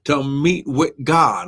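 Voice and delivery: slow, emphatic explanation; deliberate teaching pace; real slow. Real, not acted. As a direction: stretch each key term so it gets through clearly. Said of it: "I'm trying to say it real slow".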